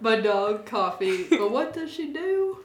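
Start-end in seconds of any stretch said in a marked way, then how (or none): 0.0-1.2 slow, stretched New Jersey accent attempt. Shown as a demonstration. Recalling Taylor's coffee line, slow New Jersey accent. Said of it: "Uh, New Jersey".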